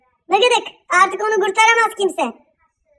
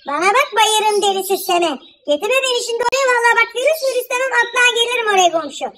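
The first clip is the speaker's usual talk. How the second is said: higher, fast threatening rant; heated threat; 3 semitones higher than usual. Acted. Wife threatens her neighbour on the phone, fast and heated. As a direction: warn her you will come over.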